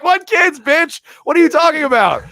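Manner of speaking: high, loud, incredulous shout; comic yelling at the psychic; outraged shout. Retold or imitated. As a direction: yell it back in disbelief. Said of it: "And I was like".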